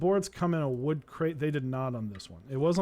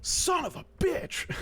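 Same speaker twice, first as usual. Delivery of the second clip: high, loud imitated curse; mock angry yell; 4 dB louder, slower than usual. Delivery guy cursing about the apartment on the phone, mock high yell. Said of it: "yelling at me on the phone".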